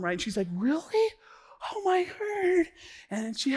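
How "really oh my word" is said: high-pitched, astonished wife; lightly mocked high female reply; wife's surprised reaction. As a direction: imitate a delighted wife, pitched way up. Voicing his wife's delighted reaction.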